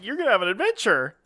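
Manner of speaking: playful mild cheerleading; upbeat optimist. Acted. Optimist selling his cohost on the drive, upbeat. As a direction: talk up the trip with light enthusiasm. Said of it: "I'm the more half glass full".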